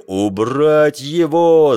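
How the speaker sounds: high, loud, drawn-out roar. A narrator's reading. Tall sailor lunging at the geographer, roaring. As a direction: bellow the order slowly. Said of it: "заревел высокий матрос".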